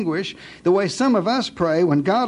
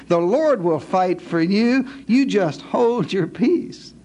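slow solemn reading; slower than usual. Acted. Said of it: "Verse fourteen".

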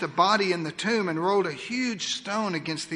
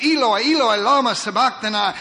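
loud cry of anguish; 3 semitones higher, 7 dB louder than usual. Acted. Jesus on the cross calling out to God, loud anguished cry. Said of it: "Jesus cried out".

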